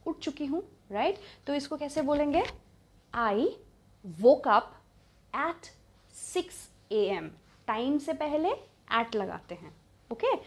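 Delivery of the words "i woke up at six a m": each word alone, long pauses between; very slow, spaced-out model; word-by-word dictation. Shown as a demonstration. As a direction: break the sentence into separate pieces for learners. Teacher breaks sentence into single words.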